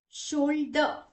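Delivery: "शोल्डर" ending in a schwa, as shol-duh; silent final r. Shown as a demonstration. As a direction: drop the r at the end of "शोल्डर". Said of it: "उसे हम pronounce नहीं करते". ("शोल्डर" को शोल्ड-अ, बिना र)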